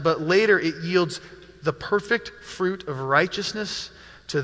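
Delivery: measured reading aloud with pauses; scripture reading. Acted. Pastor reads the passage to the congregation, measured scripture reading. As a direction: read the passage deliberately, phrase by phrase.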